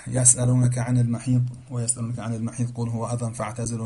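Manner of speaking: Arabic verse intoned in tajwid style; تلاوت قرآن; Quran recitation. Acted.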